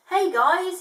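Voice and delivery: loud, high call. Acted. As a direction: call up to the birds. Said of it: "he called up to them".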